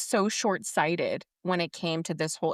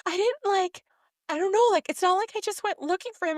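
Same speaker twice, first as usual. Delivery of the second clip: mocking character; 10 semitones higher than usual. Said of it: "she's like".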